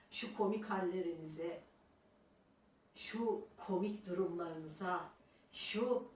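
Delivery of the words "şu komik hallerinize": normal talking voice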